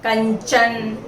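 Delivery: कंचन said with the nasal as ञ before च; demo word. Shown as a demonstration. Teacher showing the palatal nasal in a word. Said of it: "जैसे हमने अभी बोला".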